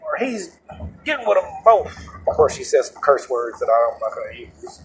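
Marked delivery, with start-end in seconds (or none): 0.0-2.0 high-pitched imitation of a woman passenger; put-on high female voice; imitated girlfriend. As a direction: mimic the girlfriend complaining on the phone. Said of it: "so she's like".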